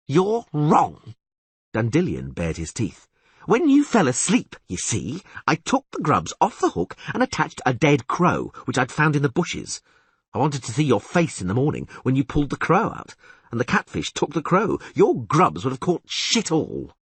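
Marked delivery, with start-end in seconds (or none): 0.1-1.1 put-on high, eager, excitable young bard; higher and louder, thrilled by the catch; excited bard voice. Dandelion marvels at the huge catfish, high and excited. 3.5-16.9 put-on high, eager, excitable young bard; excited bard voice. Dandelion marvels at the huge catfish, high and excited.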